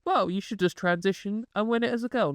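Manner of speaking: mock quoting. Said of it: "and he's like".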